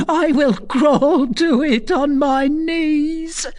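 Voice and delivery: high, frenzied ranting building to a wail; anguished tirade. A narrator's reading. Bereft mother rages at gypsy over stolen child, anguished. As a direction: rave in a high, intense voice, slowing on the final words. Bereft recluse raging at condemned girl.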